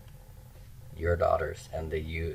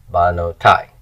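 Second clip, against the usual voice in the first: Banotai with the stress on the last syllable, tai; end-stressed Banotai; 6 dB louder than usual. Shown as a demonstration. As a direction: land on the final syllable of Banotai. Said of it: "Accents on the end".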